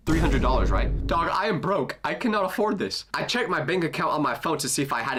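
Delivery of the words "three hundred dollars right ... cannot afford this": retold broke-and-appalled protest; mock disbelief. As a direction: balk at a price you can't pay. Shocked reply to the fee.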